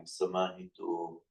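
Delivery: "Samahito" spelt out slowly, long final O; "Samahito" with a held closing O; slow careful Pali. Shown as a demonstration. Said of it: "can you just say that word".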